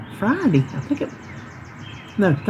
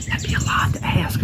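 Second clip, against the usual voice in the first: words said through a laugh; real amused chuckle in the voice; 3 semitones higher than usual. Real, not acted. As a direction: laugh it off as you speak. Laughs at her own remark.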